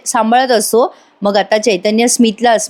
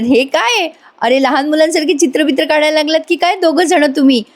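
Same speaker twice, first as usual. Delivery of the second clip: lightly voiced, higher-pitched astonishment; mock surprise; 6 semitones higher than usual. Aunt finding the couple drawing like children, mildly surprised. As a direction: act out a puzzled aunt, pitched up.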